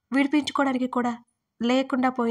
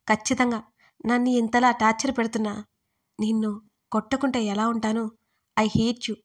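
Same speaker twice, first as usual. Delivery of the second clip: mild shout. Acted. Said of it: "అని గట్టిగా అరిచాను నేను".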